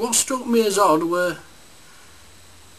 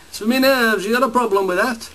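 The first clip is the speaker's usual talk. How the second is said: higher, quick challenge; defensive retort; 4 semitones higher than usual. Acted. Struggling mum caught swallowing pills challenges the workman, defensive. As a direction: throw it back as a touchy challenge.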